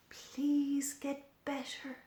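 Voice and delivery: soft unvoiced whisper; gentle whispered plea, slow. A narrator's reading. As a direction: breathe it to the drooping flowers. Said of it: "she whispered".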